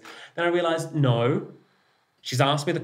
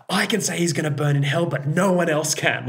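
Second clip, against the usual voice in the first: higher, louder, faster and fierce; Greek mother voice; 6 semitones higher, 4 dB louder than usual. Retold or imitated. Greek mum defending her son, higher and louder. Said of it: "she's like".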